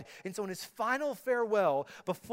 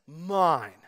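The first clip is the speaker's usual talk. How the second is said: mock child's claim; 2 semitones lower, 7 dB louder than usual. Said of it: "he is declaring the words".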